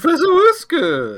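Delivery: high, loud cheer; cheering shout. Real, not acted. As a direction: call the name out like a cheer. Cheering the name.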